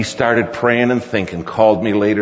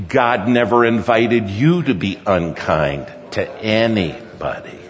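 emphatic, deliberate repeat to make it stick; insistent admonishment; 3 dB quieter than usual. Retold or imitated. Father demanding son listen about kindness, insistent admonishment. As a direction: press each word home firmly. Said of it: "And will you listen to me?".

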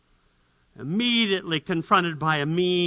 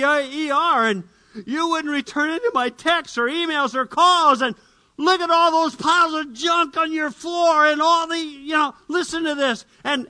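ranting wife; 6 semitones higher than usual. Acted. Wife's angry tirade at husband.

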